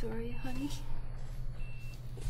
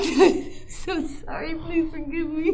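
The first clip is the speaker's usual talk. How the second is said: crying laugh. Acted. Mother laughs through tears.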